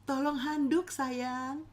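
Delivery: lightly voiced tender husband; newlywed husband asking sweetly; sweet request. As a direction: ask sweetly for the towel. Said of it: "dia akan berkata".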